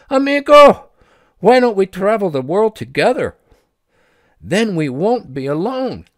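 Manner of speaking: high, loud call across the distance. Acted. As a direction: call after her friend down the road. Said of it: "Rosalie called out to Pedro".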